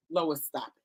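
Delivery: teasing herself through laughter; laughing self-scold. Retold or imitated. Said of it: "And I could say".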